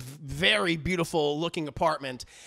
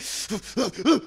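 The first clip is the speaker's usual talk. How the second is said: mock running puffs. He's doing a fucking Tom Cruise run.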